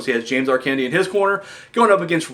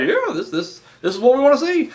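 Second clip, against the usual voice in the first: mock eager fan; 9 semitones higher than usual. Himself as a gullible fan.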